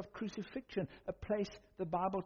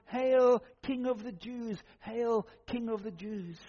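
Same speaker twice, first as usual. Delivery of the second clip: loud, raised, drawn-out first "Hail"; mocking shout; 3 semitones higher, 6 dB louder, slower than usual. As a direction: jeer it out as a repeated mock salute.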